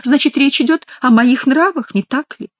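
high, mock-weepy question; put-on tearful penitent. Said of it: "слезливым тоном отозвался Шико".

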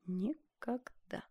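slow, soft, drawn-out refusal; hushed refusal. A narrator's reading. Duchess refusing Benvenuto, hushed. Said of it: "возразила госпожа де Тамп".

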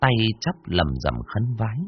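ordinary delivery, nothing marked

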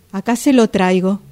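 loud call from afar. Acted. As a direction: shout it to a customer out of sight. Shopgirl calling across the store. (la vendedora avisa a los gritos)

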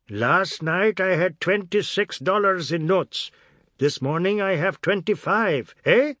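angry accusation. Acted. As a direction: lay out the charge with menace. Bandat accusing of theft.

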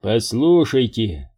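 slow, steady reassurance; calming. Acted. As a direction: talk to a scared child. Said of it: "как к неразумному ребёнку".

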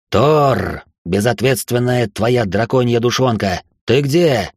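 gruff call into the void; barking call. Acted. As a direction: snap it out, calling him. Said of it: "рявкнул в астрал".

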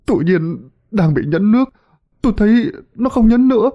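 high, frightened whine; scared high-pitched blubbering; tearful whimpering. A narrator's reading. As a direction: explain while close to crying. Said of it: "vẫn mếu máo mà nói".

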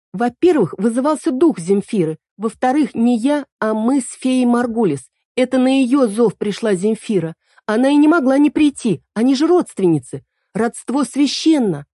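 put-on high, indignant young girl correcting him; girl Эль voice. A narrator's reading. Эль jumps in to correct Марко, high and indignant. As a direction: pitch it up as the fussy girl fairy.

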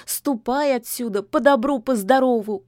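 a hint of a haughty tsar turning her away; передразнивая Кощея. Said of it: "А он и говорит". (лёгкая пародия на Кощея)

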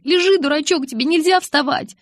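tearful shout. A narrator's reading. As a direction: shout at him to stay down. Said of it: "прикрикнула я на него сквозь слёзы".

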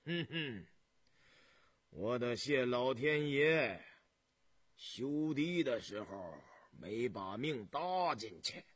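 lightly voiced old peasant chatting; old farmer.

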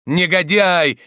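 high, loud insult; outraged shout. A narrator's reading. Priest struggling free, outraged shout. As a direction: spit the word at him. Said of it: "кричал аббат".

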